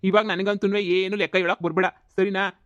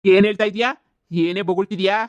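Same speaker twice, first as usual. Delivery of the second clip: loud, outraged yell at her; comic furious shout; 6 dB louder than usual. Acted. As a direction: blow up at the insult to your wife. Quarrel, husband enraged.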